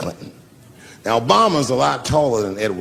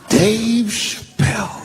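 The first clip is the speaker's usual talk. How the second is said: slow, high, drawn-out call of his name; 8 semitones higher, much slower than usual. Retold or imitated. Obama spots the comic after his interviews and calls out, slow and high. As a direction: call it out across the room.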